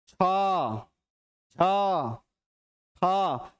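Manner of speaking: "छ, छ, ख", each stretched on extra breath; drawn-out aspirates. Shown as a demonstration. Teacher listing breath-heavy letters, "छ, छ, ख" each drawn out. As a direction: pull each of "छ, छ, ख" long, separately. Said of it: "जिसमें खींच के".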